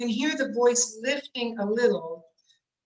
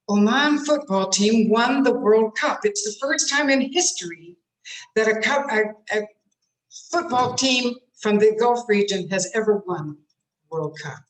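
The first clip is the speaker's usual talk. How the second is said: louder, bright-faced good-news announcement; upbeat news read; 5 dB louder than usual. Shown as a demonstration. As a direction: eyebrows up, deliver the happy headline. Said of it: "when I raise my face and I raise up my eyebrows".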